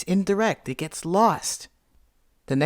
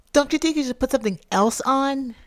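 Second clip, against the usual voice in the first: much higher, pointed question; imitated critical partner; 10 semitones higher than usual. Partner suggesting a change of clothes, high mimicked voice.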